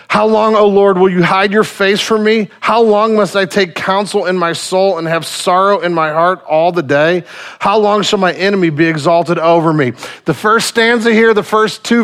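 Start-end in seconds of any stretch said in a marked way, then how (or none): 0.1-9.9 impassioned scripture reading. Acted. Preacher reading the psalm aloud to the congregation, impassioned. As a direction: cry the verses out to God.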